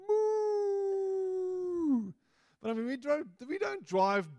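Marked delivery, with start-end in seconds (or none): 0.1-2.1 high, loud playful moo; child's moo. Retold or imitated. A little girl moos at cows from the car, high and playful. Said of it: "Nina was going".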